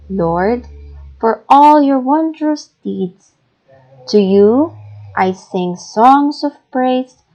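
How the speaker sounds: lively praise, lifted pitch; lively reading. Shown as a demonstration. Teacher reading a psalm with joyful feeling, lively. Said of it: "I read it, uh, lively".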